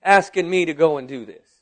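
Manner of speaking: mildly acted outrage; retold indignation. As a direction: object as if affronted by the request. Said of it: "I was indignant about the request".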